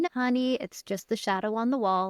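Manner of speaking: mild, softening reassurance; gently calm a scared child; lightly voiced reassuring parent; soothing parent. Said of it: "the parent comes in".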